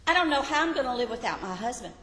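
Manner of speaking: desperate widow's prayer. Pretend. Preacher acts out a widow lamenting to God, pleading. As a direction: spill it out fast like a grieving widow begging God. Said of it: "It would look like this".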